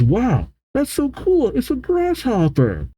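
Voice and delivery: high-pitched wowed marvelling; awed excitement. A narrator's reading. Luffy marvels at a giant grasshopper, high-pitched awe.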